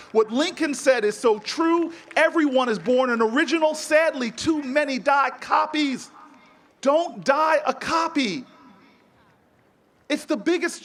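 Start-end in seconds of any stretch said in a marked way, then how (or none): 0.1-8.4 rousing exhortation. Real, not acted. Preacher building to a rousing climax.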